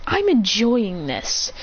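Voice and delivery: slow, drawn-out relish; savoring the fight. Acted. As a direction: stretch the words out with enjoyment.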